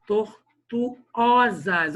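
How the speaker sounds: TORTUOSAS broken slowly into syllables, loud on the Ó; stress on the Ó. Shown as a demonstration. Teacher showing the class the tonic vowel, TORTUOSAS slow with a loud stressed Ó. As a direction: stretch and punch the Ó in TORTUOSAS. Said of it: "esse ó tônico".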